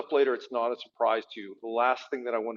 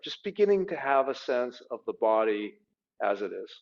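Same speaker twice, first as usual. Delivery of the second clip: calm body-scan guidance with long pauses; guided meditation. Real, not acted. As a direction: guide them gently inward, leaving space between phrases.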